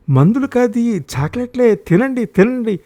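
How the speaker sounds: high, urgent pressing; forceful insistence. A narrator's reading. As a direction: press it on reluctant children. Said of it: "బలవంతంగా పెట్టబోయింది". (బలవంతపెడుతూ)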